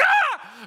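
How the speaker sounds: high, loud comic shriek of fright; startled scream. Retold or imitated. Disciples shocked when Jesus appears through locked door, shrieking. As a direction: jump out of your skin.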